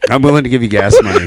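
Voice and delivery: fast, laughing plea. Real, not acted. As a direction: laugh while pleading. Laughing offer.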